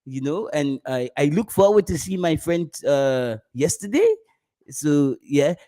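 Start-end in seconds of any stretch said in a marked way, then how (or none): 0.0-4.1 mock French accent. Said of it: "So a French person is like".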